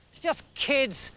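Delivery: slow, scornful dismissal; sneering. Acted. Sisera scoffing at the stone-throwers, sneering. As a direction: sneer it down at the rebels. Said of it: "sneered Sisera".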